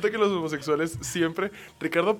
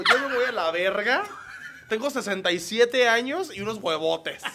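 mock macho bravado; 5 semitones higher, 3 dB louder than usual. Quoting the old man's bravado.

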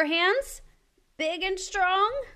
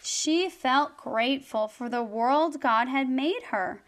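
gentle storytelling voice; story narration. A narrator's reading. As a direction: read it like a bedtime story. Reads her rhyming story.

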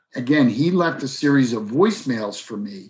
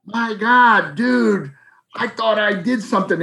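relieved surprise; 7 semitones higher than usual. Retold or imitated. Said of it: "He was like".

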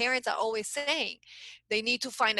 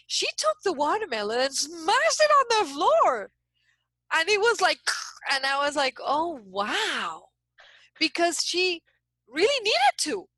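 much higher and louder, lit up with excitement; excited retelling; 7 semitones higher, 5 dB louder than usual. Real, not acted. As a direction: relive the big moment, voice soaring. Retelling the watermelon smash excitedly.

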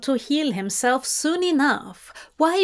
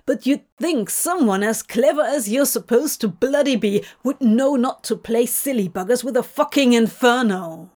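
scolding; 3 dB louder than usual. Acted. Crawley scolding injured angel.

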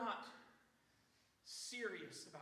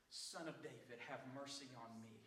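mild acted cry for mercy, lower in pitch; crying out, restrained; 5 semitones lower than usual. Preacher as Bartimaeus refusing silence, a restrained cry out. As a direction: call out firmly without shouting. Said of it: "I'm gonna cry out all the more".

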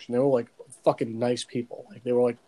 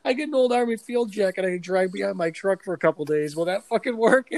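higher, eager naive voice; mock earnest question; 5 semitones higher than usual. Himself asking his angry girlfriend, higher eager voice. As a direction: ask it all wide-eyed and sincere. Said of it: "I'm like".

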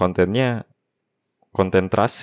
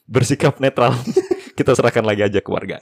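laughing; 2 semitones higher than usual. Real, not acted. Laughing while giving verdict.

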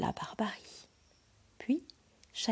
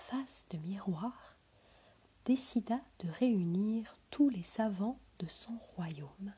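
whispered storytelling. A narrator's reading. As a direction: breathe the tale to a sleeping child. Whispered fairy-tale narration.

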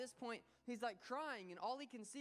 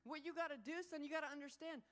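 impassioned father; 7 semitones higher than usual. Retold or imitated. Father explaining to his son where to stand, fervent. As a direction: urge him to understand. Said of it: "he says".

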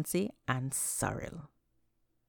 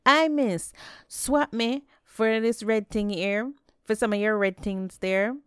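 1 calling out to vendor; 6 semitones higher, 4 dB louder than usual. A narrator's reading. Anansi haggles loudly at stall.

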